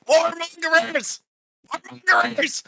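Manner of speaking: high, drawn-out gnome shriek; slow, high-pitched cry of accusation; accusing gnome cry. Acted. Gnome accusing the adventurers, high drawn-out cry.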